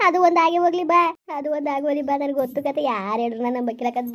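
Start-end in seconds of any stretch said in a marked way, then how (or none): 0.1-1.0 raised, higher call to come along; pressing her to come, voice up; loud urging call. Acted. Husband loudly urges his grieving wife to come along.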